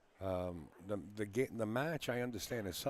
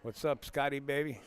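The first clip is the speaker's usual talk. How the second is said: cheery greeting; 6 semitones higher, 5 dB louder than usual. Real, not acted. Greeting a friend arriving.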